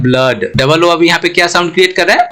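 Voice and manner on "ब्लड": ब्लड with an 'uh' vowel, pitched lower; 'अ' vowel demo. Shown as a demonstration. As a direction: teach ब्लड with 'uh', not 'oo'. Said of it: "अ का sound create हो रहा है". (ब्लड में 'अ' की आवाज़)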